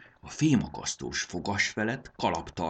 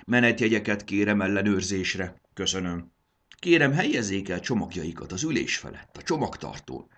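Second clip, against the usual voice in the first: a louder official ticket-check voice; playing conductor; 3 semitones higher, 4 dB louder than usual. Dragon girl plays conductor to show she can, official announcing.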